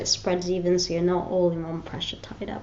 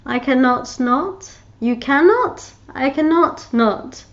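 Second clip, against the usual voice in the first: Piglet quote; 5 semitones higher, 6 dB louder, slower than usual. Retold or imitated. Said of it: "And he goes".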